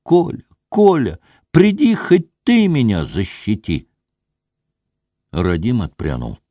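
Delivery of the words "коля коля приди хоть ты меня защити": desperate call. A narrator's reading. Wife calls Kolya to protect her, desperate and high. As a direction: cry out for Kolya to save her. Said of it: "отчаянно закричала".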